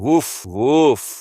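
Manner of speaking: slow, drawn-out mock barks; hammed-up human woofing; imitating a dog. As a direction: bark like a submissive pet. Defeated demon offers to bark.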